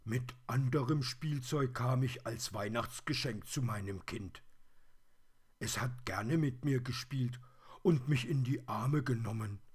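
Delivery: high, fairly loud toy-bear voice; wistful plush teddy. A narrator's reading. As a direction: reminisce as a little teddy.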